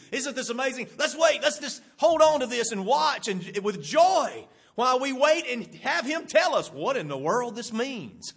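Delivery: rising to loud, eager awe; excited wonder. Pretend. Disciples marvelling at Jesus, building to loud joy. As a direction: swept up in the wonder of it.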